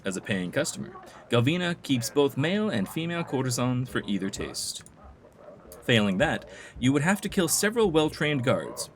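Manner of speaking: measured, theatrical telling of town intrigue; game informant. Acted. Informant tells player of Galvina's feud, theatrical storytelling. Reads game character's dialogue aloud.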